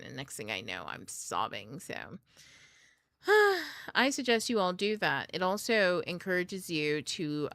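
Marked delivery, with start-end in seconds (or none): 3.2-3.9 loud, high exhaled sigh. Real, not acted. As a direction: let out a big sigh. Sighs before giving her advice.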